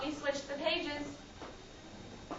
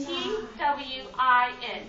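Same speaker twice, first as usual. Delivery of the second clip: slow spelling; 4 dB louder, slower than usual. Shown as a demonstration. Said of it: "what letter makes the sound N?".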